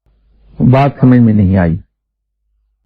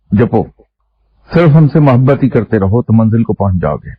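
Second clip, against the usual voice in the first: mildly impassioned, imitating an elder holding forth; understated fervent exhortation, as retold; retold fervour. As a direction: quote him with a touch of zeal, lifting the pitch on some phrases. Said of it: "بڑے جوش میں فرمانے لگے".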